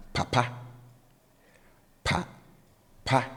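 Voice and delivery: papa with the first syllable low, the second high; papa rising from a low first syllable to a high second; low then high tone. Shown as a demonstration. Teacher modelling papa, father, low then high. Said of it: "the tone on the first syllable is low".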